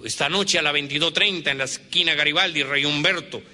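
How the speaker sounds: firm, proud duel challenge; "treinta" stated firmly, like issuing a challenge; defiant challenge. Retold or imitated. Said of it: "Batirse a duelo".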